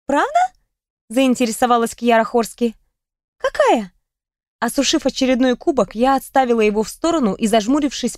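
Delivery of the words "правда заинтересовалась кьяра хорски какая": заинтересованно. Acted. Кьяра заинтересовалась.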